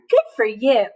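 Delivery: hushed warm whisper; whispered praise. Real, not acted. Teacher whispering praise to a child. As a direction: whisper it as a little secret reward. Soft praise after excitement.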